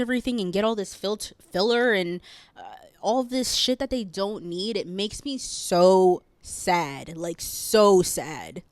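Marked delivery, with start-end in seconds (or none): 4.8-8.6 near tears. Real, not acted. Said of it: "I could literally cry right now".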